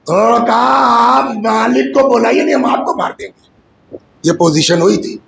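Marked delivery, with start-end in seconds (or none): 0.6-3.5 raised, urgent demand; threatening shout. Retold or imitated. Rebels threatening the Imam.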